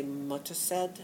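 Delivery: "Muttershed" with no th sound, MUT-ter-shed; English pronunciation. Shown as a demonstration. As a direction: drop the H in "Muttershed". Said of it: "they don't pronounce the H's".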